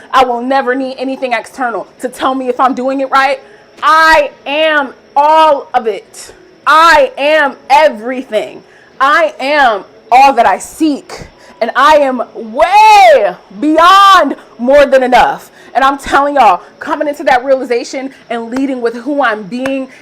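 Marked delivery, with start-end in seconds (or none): 3.8-15.5 slow, drawn-out self-affirmations; slow mantra-like declarations. Acted. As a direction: savour each word like a mantra.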